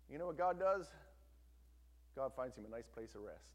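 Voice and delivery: normal talking voice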